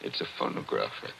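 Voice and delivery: breathless whisper of discovery; hushed whisper. Acted. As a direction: whisper it, awed and quick. Awed discovery of the record.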